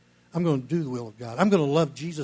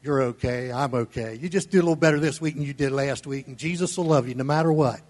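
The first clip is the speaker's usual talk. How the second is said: mock complacent comfort; 2 semitones lower than usual. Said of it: "what most of the church wants to hear".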